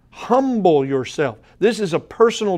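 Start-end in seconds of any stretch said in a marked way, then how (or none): 0.1-1.4 slow, deliberate HUMBLE leading into YOURSELF; emphatic stress. Shown as a demonstration. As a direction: repeat "Humble yourself" slowly to drive it home. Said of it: "The emphasis on this is".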